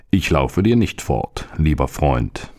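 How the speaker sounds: put-on stomach calmly tells the boy it won't run away, slow and low. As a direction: lean back and answer slowly, unbothered. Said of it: "antwortete der Magen".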